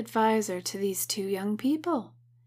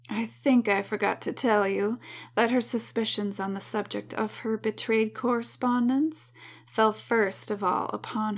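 a hint of twang and sass, lightly voiced; sassy lady's voice. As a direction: read her letter with mild sass and a touch of twang. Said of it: "I gave as much twang as I could handle today".

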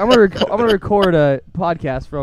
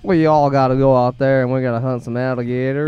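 amateur put-on Southern accent; 3 semitones lower than usual. Shown as a demonstration. Showing off a Southern accent to podcast co-hosts, badly put on. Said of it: "Southern accent right now".

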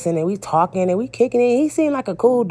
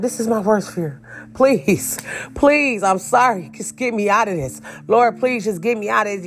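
higher-pitched re-enacted plea to God; retold desperate prayer; 4 semitones higher than usual. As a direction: plead to be let out, acting it out. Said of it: "you know that famous prayer".

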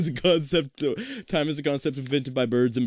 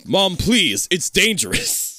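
put-on kid Markiplier; 5 semitones higher, 3 dB louder, much slower than usual. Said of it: "You sound like Markiplier as a kid".

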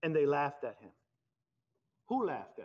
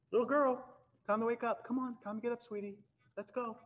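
gentle wake-up call; 6 semitones higher than usual. Retold or imitated. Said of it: "Just like".

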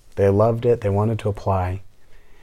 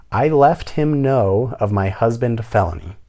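slow, higher mock reading of "I left him know"; reading her words; 4 semitones higher, 4 dB louder than usual. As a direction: drag out "left him know" as if quoting a bad writer. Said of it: "and I quote".

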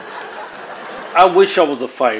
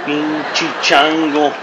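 slow Spanish phrase; much slower than usual. Shown as a demonstration. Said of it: "But change to Spanish".

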